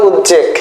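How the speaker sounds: উদ্বেগ said as uj-jog, with a doubled j; j-sound variant. Shown as a demonstration. Teacher giving what many people say, with a doubled j. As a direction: put a j sound in the middle, uj-jog. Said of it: "বা অনেকে বলে".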